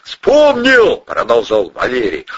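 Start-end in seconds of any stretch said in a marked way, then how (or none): 0.0-1.0 excited shout. Acted. Suspect shouting alibi.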